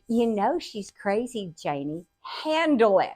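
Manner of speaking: understated imitation of an unfazed dad; matter-of-fact dad. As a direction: state the obvious, then order it briskly. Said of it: "so matter of fact".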